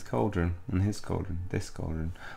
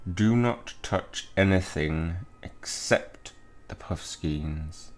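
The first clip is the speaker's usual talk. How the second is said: slow, measured professor voice; lightly voiced strict teacher, spaced out slowly; stern professor; much slower than usual. Professor warning a student off the cauldrons, slow and stern.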